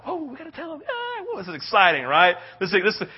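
excited disciples. Acted. Disciples excitedly hurrying back.

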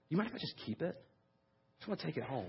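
soft, hesitant voice of a moved woman; timid request. Retold or imitated. Crying birthday woman asks to keep her cake, timid and soft. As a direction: ask quietly, as if embarrassed to ask.

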